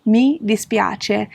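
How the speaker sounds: mi dispiace drawn out slow and apologetic; slow regretful mi dispiace; sorry, slow. Shown as a demonstration. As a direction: apologize slowly, meaning it. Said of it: "you just wanna say".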